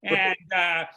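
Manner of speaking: Italian captain's welcome speech; Italian accent. Acted. Freed captain thanks and apologizes to passengers, Italian accent. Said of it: "You hear this in an Italian accent".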